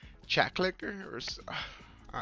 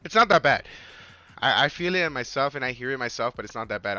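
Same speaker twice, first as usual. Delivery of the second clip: hoarse voice. Real, not acted. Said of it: "I have no voice, as you guys can tell".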